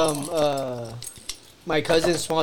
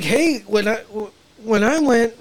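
lifted, badly faked Swedish lilt; mock Swedish accent, feeling it out; attempted Swedish accent; 3 semitones higher than usual. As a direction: try out an unsure Swedish accent. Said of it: "is that Swedish?".

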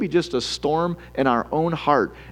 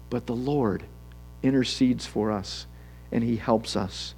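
quiet reassurance; 4 semitones lower, 7 dB quieter than usual. Acted. Preacher reassures the scared and nervous, hushed. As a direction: lower and softer, settled. Quiet answer to acted fears.

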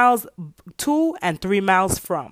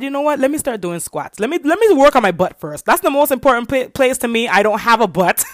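upbeat self talk; 4 semitones higher, 4 dB louder than usual. Retold or imitated. Deciding to start squats.

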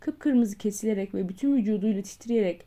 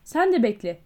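louder, snapping at her; shouting; 5 dB louder than usual. Acted. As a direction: bark at the customer. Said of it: "diye bağırdı".

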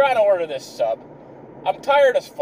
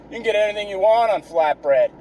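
snobby. Retold or imitated. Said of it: "he said it all, like, kinda snobby".

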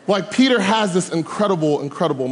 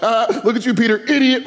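mocking jeer; 4 semitones higher than usual. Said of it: "disciples were probably on the boat like".

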